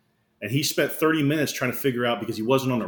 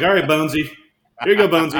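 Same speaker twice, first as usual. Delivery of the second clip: loud, raised-pitch holler; imitated coach yell; 3 semitones higher, 7 dB louder, faster than usual. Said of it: "he starts yelling".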